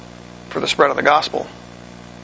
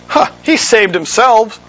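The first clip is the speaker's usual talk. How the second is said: mocking; 5 semitones higher, slower than usual. Chief priests mocking Jesus.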